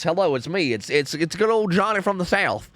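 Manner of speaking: lightly done slow Southern drawl; a hint of a Southern good ol' boy, drawn out; Southern accent. Streamer imitating a Southern friend's greeting, light Southern accent. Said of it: "talks like this".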